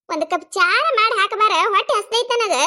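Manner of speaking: lightly voiced complaining mother-in-law; demanding mother-in-law. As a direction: call out a needy demand. Mother-in-law calls out for tea.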